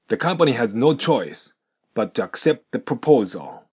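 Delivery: slow, "but to" and "accept the" linked; linking demo. Shown as a demonstration. Teacher reads example sentence slowly for linking. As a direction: model the sentence slowly, sounds joined. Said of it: "ここでのポイントは".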